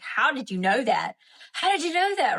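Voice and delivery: ask, then repeat it high-pitched in disbelief; mock astonishment. Acting out freaked-out people's reaction.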